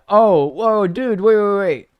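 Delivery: high, loud burst of alarm; startled realization. Real, not acted. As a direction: blurt it out as the mistake dawns on you. Suddenly realizes he misread comment.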